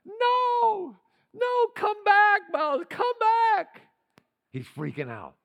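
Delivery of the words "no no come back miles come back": high, louder frantic calling; father crying to his fainted son; panicked crying plea. Retold or imitated. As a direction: beg the child to come back. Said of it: "and he's crying".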